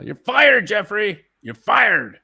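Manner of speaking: high, loud hammed-up dismissal; mock firing shout. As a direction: pretend to sack someone with gusto. Mock firing of the absent agent.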